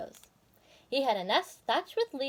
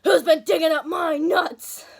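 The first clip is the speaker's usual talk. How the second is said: louder, slow accusing shout; shouting into the hole; 6 semitones higher, 8 dB louder than usual. A narrator's reading. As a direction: yell it down into the hole. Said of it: "he shouted into the hole".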